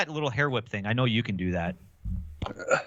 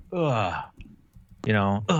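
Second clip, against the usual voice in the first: edgelord groan; 4 semitones lower than usual. Pretend. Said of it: "edgelord voice".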